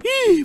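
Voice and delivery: short theatrical gasp; shocked gasp. Acted. Headman finding the money gone, shocked gasp. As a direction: gasp in mock alarm.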